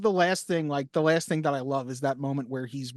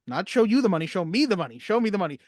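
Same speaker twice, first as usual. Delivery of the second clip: insane yelling; 3 semitones higher, 3 dB louder, faster than usual. Retold or imitated. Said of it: "Tom Cruise being absolutely insane".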